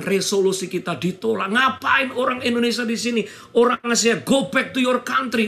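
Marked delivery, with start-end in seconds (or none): 1.5-5.5 mild mock yell, higher pitched; half-shouted imitation of protesters; retold mob yelling. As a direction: imitate angry neighbours calling out. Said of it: "Mereka teriak-teriak".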